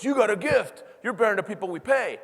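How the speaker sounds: loud, high excited shout; mock shout of praise; principal shouting. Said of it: "he starts shouting at me".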